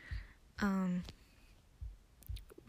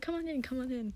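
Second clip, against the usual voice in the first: higher, lightly imitated cheery welcome; super cheery; 5 semitones higher than usual. Villain welcoming them into his office, super cheery. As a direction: play a cheerful host waving them in. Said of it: "he's being super cheery".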